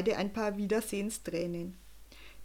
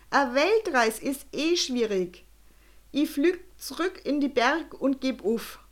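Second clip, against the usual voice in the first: put-on old balloonist admits defeat to Jo; resigned balloonist; 4 semitones higher, 3 dB louder than usual. A narrator's reading.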